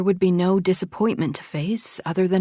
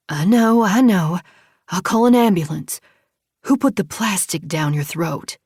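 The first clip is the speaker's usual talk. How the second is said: urgent and upset; 6 dB louder than usual. Acted. Sister frantic after an overdose.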